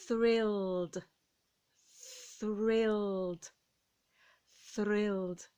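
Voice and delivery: thrilled said slowly as one syllable, th, r, l and a clear final d; model pronunciation. Shown as a demonstration. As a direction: model the word for learners to repeat. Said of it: "Put it together".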